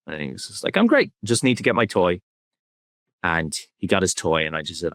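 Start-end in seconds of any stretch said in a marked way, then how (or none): 0.8-2.2 put-on high, carefree little boy, unbothered; breezy kid voice. Son breezily answering dad after the fight, high carefree kid voice. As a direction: toss it off like a kid who forgot everything.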